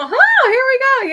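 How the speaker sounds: high, slow, hammed-up sleepy voice; mock wake-up groan. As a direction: play someone dragging themselves out of bed. Acting waking up groggy.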